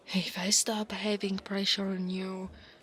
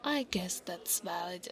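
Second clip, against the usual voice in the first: whispering; 2 semitones lower, 6 dB quieter than usual. Acted.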